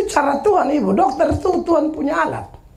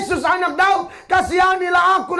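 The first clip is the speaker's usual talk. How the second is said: mild mock cry out; 5 semitones higher than usual. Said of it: "Lalu dia berteriak".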